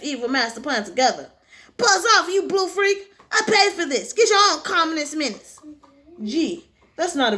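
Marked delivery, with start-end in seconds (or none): 1.8-5.6 high, loud indignant brush-off; cartoon hero snapping. Hero telling the blue rival to buzz off, indignant shout. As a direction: shoo the rival away, indignant. Voicing rival hero's rebuke.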